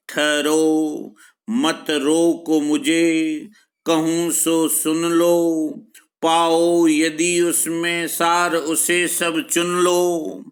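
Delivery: slow, sustained poetic delivery; verse recitation. Acted. Teacher reciting Kaikeyi asking not to be stopped, slow verse recitation. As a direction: stretch each phrase out in steady metre.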